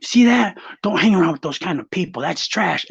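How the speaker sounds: sneering mom, sharp and loud at the start; mock the snobby mother scolding her son; retold sneer of a snobbish mother; disgusted mom. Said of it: "she goes".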